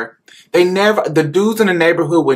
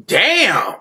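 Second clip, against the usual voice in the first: shocked outcry; much slower than usual. Retold or imitated. Grown neighborhood men stunned watching the boy fight, shocked outcry. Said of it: "they're like".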